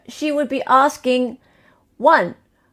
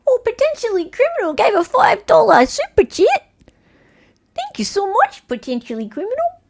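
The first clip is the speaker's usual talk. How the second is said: put-on playful South African accent, higher; 10 semitones higher than usual. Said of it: "This is a South African accent".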